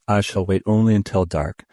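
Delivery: usual speaking voice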